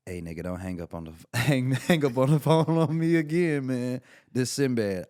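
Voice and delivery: loud, annoyed comedian scolding through the phone; hammed-up Sinbad telling him off for hanging up. Sinbad calls back and scolds the young comic, loud irritated impression. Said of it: "and he's like".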